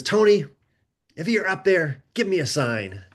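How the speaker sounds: retold call to the heavens, starting high.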